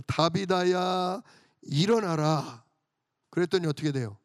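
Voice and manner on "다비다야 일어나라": a slow, commanding call to rise, every syllable drawn out; solemn proclamation. Retold or imitated. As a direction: command the dead woman to get up, slowly and with authority. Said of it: "선포하는 거예요". (느리고 위엄 있게 선포하듯)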